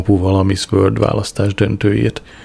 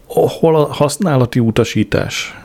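mother yells, pitched up high; yelling mother; 6 semitones higher than usual. A narrator's reading. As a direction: shout the question at her in a panic. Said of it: "ordította anyám".

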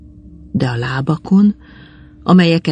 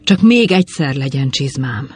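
plain reading voice

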